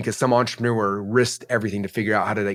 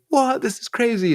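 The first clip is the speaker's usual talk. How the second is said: retold shock; 12 semitones higher, slower than usual.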